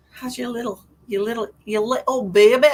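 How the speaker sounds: hammed-up, bad Scottish accent; terrible Scottish accent. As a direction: put on a clumsy Scottish accent. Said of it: "It's terrible Scottish accent".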